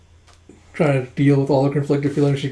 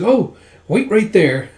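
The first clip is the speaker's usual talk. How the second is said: higher, louder and drawn out; eager exclamation; 7 semitones higher, 6 dB louder, slower than usual. Acted. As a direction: blurt it out, then stretch the words. Acted excited sudden request to wait.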